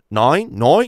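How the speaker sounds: high, loud, shrill squawking cartoon bird voice. Joking in a group, saying a word like the Finding Nemo birds voice. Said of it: "I'll do it like the Finding Nemo birds".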